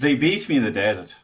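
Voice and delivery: lighter Irish lilt; Irish accent, tip of the tongue. Shown as a demonstration. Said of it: "Okay, good, good".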